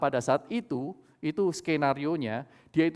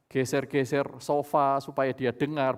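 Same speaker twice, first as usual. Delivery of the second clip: usual speaking voice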